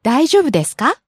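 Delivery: polite concern. Shown as a demonstration. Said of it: "You would say".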